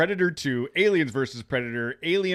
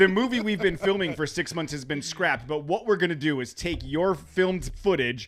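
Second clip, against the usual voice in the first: studio exec voice; 3 semitones higher than usual. Retold or imitated. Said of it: "They're like".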